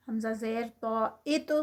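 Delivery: ات with a heavy طو and a light bounce at the end; heavy toe with echo. Shown as a demonstration. Teacher showing students a heavy طو with qalqala. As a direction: make the طو in ات heavy and let it bounce. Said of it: "heavy اور ساتھ میں تو کا کل- کلکلا ہوتا ہے".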